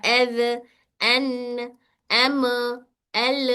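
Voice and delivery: letters sounded with an echo bounce; wrong bouncing letters. Shown as a demonstration. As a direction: let each letter bounce off at the end. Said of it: "ऐसे जो पढ़ते हैं ना हम लोग".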